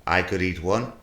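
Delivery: a lightly put-on Irish accent, unconvincing; a half-hearted Irish poet accent; bad Irish accent. Poet reciting a limerick in a weak Irish accent. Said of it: "As an Irish poet".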